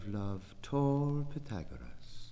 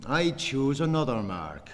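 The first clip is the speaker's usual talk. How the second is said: high, ringing proclamation; loud declaiming; 7 semitones higher, 8 dB louder than usual. Acted. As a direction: cry it out to the rafters. Poem's loud opening cry.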